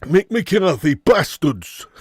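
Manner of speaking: lightly hammed Yorkshire accent; Mick McCarthy impression. Streamer returning to his impression, mock Yorkshire grumble. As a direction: put a touch of broad Yorkshire on it. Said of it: "I sound more like Mick McCarthy".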